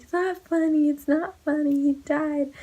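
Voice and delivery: high, loud tearful protest; mock crying. Crying daughter to her laughing mom, mock-tearful protest. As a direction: imitate wailing at someone who is laughing. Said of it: "I'm crying".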